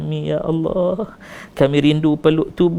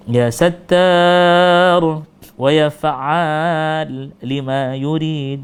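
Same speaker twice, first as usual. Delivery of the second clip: long loud invocation; 2 semitones higher, 3 dB louder, much slower than usual. Real, not acted. Drawn-out invocation of divine names.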